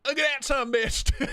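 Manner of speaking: high, thrilled exclamation; excited. Real, not acted. Showing Isaiah the knife, excited and high. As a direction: gush over the prize.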